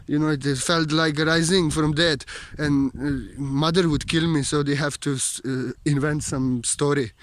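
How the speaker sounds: put-on Borat-like comic accent; comedian's broken-English accent in the manner of Borat. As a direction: ramble in a mock-foreign Borat-style accent.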